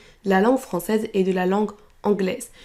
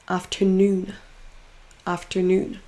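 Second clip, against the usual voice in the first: NOON in "Afternoon" held long; stressed syllable drawn out; 3 semitones lower, slower than usual. Shown as a demonstration. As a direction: lean on the last syllable of "Afternoon". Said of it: "en faisant traîner un". (dernière syllabe de « Afternoon » traînée)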